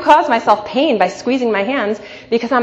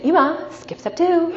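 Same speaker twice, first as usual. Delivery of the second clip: much higher, slow laughing sing-song; kids teasing; 10 semitones higher than usual. Retold or imitated. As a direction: tease mom gently with a laugh. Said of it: "my kids looked at me and said".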